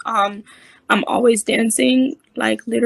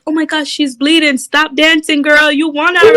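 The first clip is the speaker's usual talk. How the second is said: raised, urgent onlooker voice; imitated alarm; 4 semitones higher than usual. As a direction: play a concerned onlooker calling out. Onlooker alarmed at bleeding dancer.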